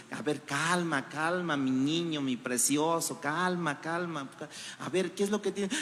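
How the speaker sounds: soft, tender hush to a little one; calm the child down gently; a parent quieting a crying child, soft and tender; soothing. Acted.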